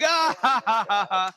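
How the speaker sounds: high, loud "ah" falling into ha-ha-ha; delighted mock laughing outburst; re-enacted delighted laugh. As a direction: replay a fan's gleeful cackle. Acts out own delighted reaction.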